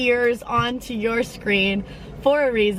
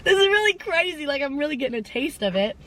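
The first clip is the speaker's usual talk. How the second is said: giggly amazed self-talk; 5 semitones higher than usual. Retold or imitated. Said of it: "I was like".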